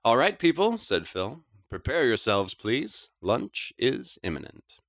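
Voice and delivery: high, loud playful announcement to the room; a hammy chef's call, slow on the last words. Acted. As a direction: summon everyone grandly to the table. Phil calling everyone to lunch.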